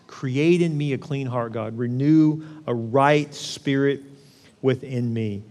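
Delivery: slow prayer. Acted. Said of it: "slow prayer".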